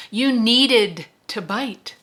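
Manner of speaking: slow, steady patient telling. Acted. Roland calmly explains to Susanna why he provoked her. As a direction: lay it out calmly, unhurried. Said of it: "in that same patient tone".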